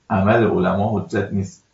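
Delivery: عمل علما حجت نیست said slowly, each word weighted; slow emphatic rule. Shown as a demonstration. Cleric correcting a questioner, slow and emphatic. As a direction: lay down the rule deliberately. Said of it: "ببینید،".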